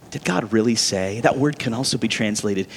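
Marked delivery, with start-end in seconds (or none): 0.1-1.2 mocking. Shown as a demonstration. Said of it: "He's mocking it".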